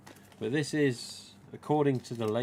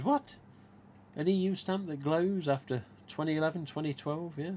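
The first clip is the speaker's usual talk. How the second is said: retold disbelief; 6 semitones higher than usual. Retold amazed reaction to glow.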